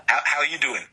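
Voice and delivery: attempted New York greeting; New York accent. Shown as a demonstration. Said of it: "I'm trying to do the New York accent".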